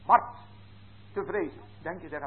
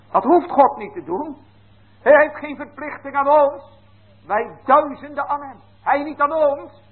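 fervent preaching; 8 semitones higher, 4 dB louder than usual. Real, not acted. Preacher rising to emphasis.

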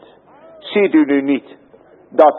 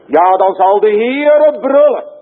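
higher, louder preaching cry; proclaiming loudly; 9 semitones higher, 4 dB louder than usual. Real, not acted. Preacher to congregation, crying out the Lord's roar. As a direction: ring it out like a roar.

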